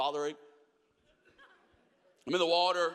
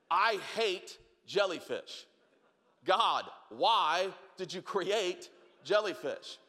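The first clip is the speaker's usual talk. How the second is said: mock lament; slower than usual. Mock lament about jellyfish.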